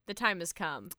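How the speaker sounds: low, soft, solemn news-anchor announcement; understated newsreader gravity; news reporter. Pretend. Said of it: "talking like a news reporter".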